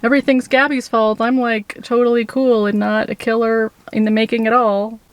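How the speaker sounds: a hint of mock-casual guy voice; mocking casual Brian. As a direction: lightly mimic his breezy denial. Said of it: "trying to act all casual and like".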